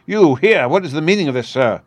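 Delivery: high, loud outraged demand; angry cry. Acted. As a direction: demand it in sudden fury. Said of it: "he cried".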